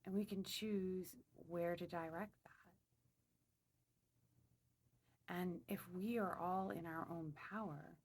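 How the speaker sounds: unhurried meditation voice with long pauses; slow, spaced-out affirmations, calmly led; guided meditation. Real, not acted. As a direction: guide them inward, phrase by phrase. Leads a meditation.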